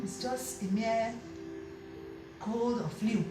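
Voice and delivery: soft, slow, reassuring explanation; gentle counsel. Acted. Auntie calmly comforting the worried wife, soft and slow. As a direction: soothe her like a wise elder.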